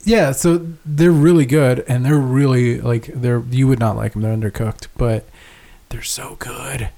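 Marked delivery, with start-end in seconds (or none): 5.9-6.9 slow, soft whisper; hushed rapture. Real, not acted. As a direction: whisper it slowly, savouring the food. Savouring the undercooked hamburgers.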